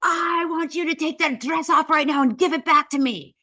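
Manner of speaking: loud, high demand in mock Italian accent; imperious hammed-up order, pitched high; Gabbana. Designer orders host out of the dress, loud and furious. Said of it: "Gabbana starts screaming at me more".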